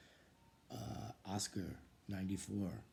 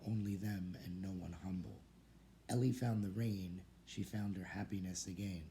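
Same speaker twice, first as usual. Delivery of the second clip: measured rhymed verse, each line falling away at its end; even poetry-reading cadence; poem recitation. Real, not acted. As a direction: read a student's poem aloud, line by line. Reads student's poem aloud.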